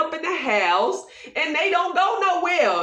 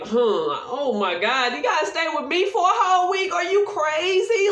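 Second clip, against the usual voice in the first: mock horrified spouse; 4 semitones higher than usual.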